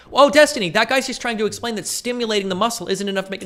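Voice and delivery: very high, loud whiny mimic; mock chatter. Streamer mocking a chat viewer, high whiny voice. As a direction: parody a smug viewer correcting him. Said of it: "mocking a chat member".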